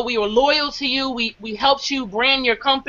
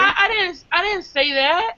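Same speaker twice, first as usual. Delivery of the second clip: higher, whiny mock-innocent voice; changed babyish voice; 6 semitones higher than usual. The mentor denying to Charles, higher and whiny, mock babyish. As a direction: play the wounded innocent denying it all. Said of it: "his whole voice changed".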